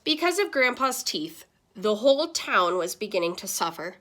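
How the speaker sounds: put-on lively read-aloud to kids; animated classroom storytime voice; story narration. A narrator's reading. Reads picture book aloud.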